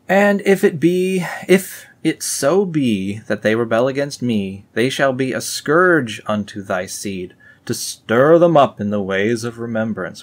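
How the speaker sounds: scripture reading. Acted. Reading the Book of Nephi aloud to viewers, solemn. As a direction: proclaim it like old scripture.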